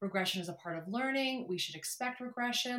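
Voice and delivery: mock soft compassionate voice. Speaker recalls answering a question about regressed dog-training clients, retelling a compassionate voice. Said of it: "I had this like really compassionate voice of like".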